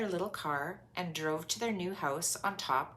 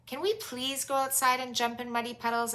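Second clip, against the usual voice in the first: excited; 7 semitones higher than usual. Acted. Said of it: "asked Peppa excitedly".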